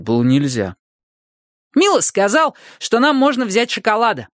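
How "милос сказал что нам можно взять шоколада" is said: put-on much higher, childlike voice; high-pitched kid staking a claim; child angel. A narrator's reading. Angel boy asks the Ogre for chocolate, high childlike voice. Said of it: "сказал ангел".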